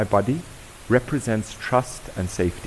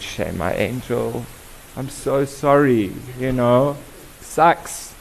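mock sympathy; 2 semitones higher, much slower than usual. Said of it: "And we said".

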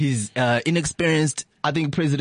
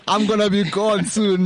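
old Zuma impression; 5 semitones higher than usual. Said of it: "he's like".

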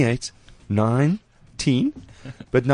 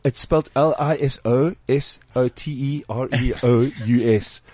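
slow spelling imitation; slower than usual.

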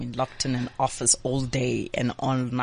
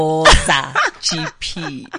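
hype announcement; 8 dB louder, much slower than usual. Real, not acted. Host hypes number plate.

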